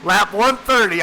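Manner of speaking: cracking puberty voice calling the lap; voice cracks. Real, not acted. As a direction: voice cracking, loud and slow. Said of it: "sounding like a boy in puberty with these voice cracks".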